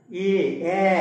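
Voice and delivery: এ said with lips spread wide to the sides; spread lips vowel. Shown as a demonstration. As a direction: stretch the lips sideways on এ. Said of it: "দেখো একটু ঠোঁটটা একটু প্রসারিত হচ্ছে".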